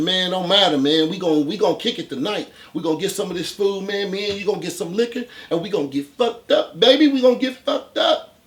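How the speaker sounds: loud buddy talk. Retold or imitated. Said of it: "I'm loud as shit".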